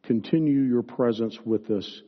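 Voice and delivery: fervent, declarative pastoral prayer; firm, projected prayer, slowing towards the end; public prayer. Real, not acted. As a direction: lead the congregation in earnest prayer. Leads the closing prayer.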